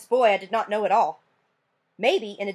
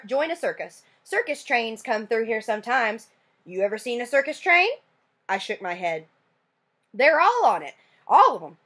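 Burke voice; 3 semitones higher than usual. Acted. Burke dreaming of circus.

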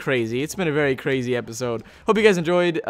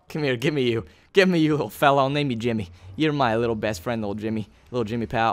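soft, low cooing to a little creature; tender pet talk; 5 semitones lower, 3 dB quieter than usual. Real, not acted. Gamer naming his little pet Jimmy, soft low cooing. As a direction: coo at your new tiny friend.

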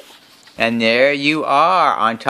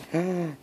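gasp; 8 semitones higher, 12 dB quieter than usual. A narrator's reading. Elephant reacts to the special buddy.

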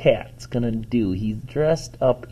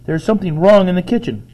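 loud, much higher panicked call; screaming for Robert; 7 dB louder than usual. A narrator's reading. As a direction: scream down the stairs for help. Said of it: "awakened by a scream".

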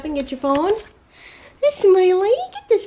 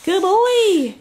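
squeaky praising a dog; 6 semitones higher, 4 dB louder than usual. Real, not acted.

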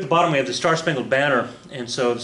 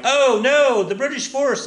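mock panic; 12 semitones higher, 6 dB louder, slower than usual. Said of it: "we're like".

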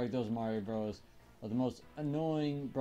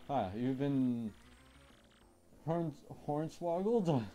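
voiced character; 3 semitones higher, slower than usual. A character reacts to the fake.

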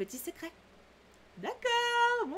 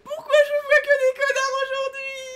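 hammed-up fake sob, much higher and louder; mock whining; 11 semitones higher, 8 dB louder than usual. Player groans at meeting only jerks, mock crying. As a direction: wail like a spoiled child.

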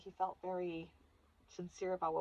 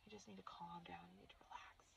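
mimicking dad; 21 dB quieter than usual. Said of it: "That's his favorite thing".

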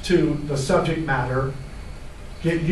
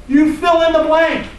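raised, louder nagging inner critic; gremlin voice; 11 semitones higher, 6 dB louder than usual. Pretend. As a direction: taunt like a nasty little gremlin. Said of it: "This is my gremlin voice".

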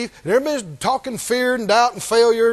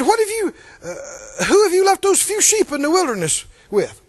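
retold older brother's higher-pitched challenge; acted-out reproach with raised pitch; accusing; 5 semitones higher than usual. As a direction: demand an answer, mock-accusingly. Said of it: "He's accusing him of being negligent".

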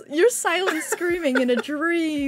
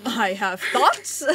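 slow dramatic; 5 semitones lower, much slower than usual. Pretend.

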